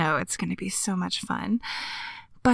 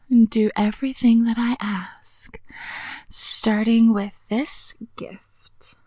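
teasing whisper. Acted. Whispered commands.

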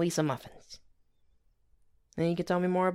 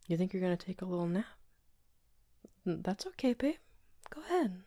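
sweet nothings; 4 semitones higher than usual. Acted. Soft bedtime talk.

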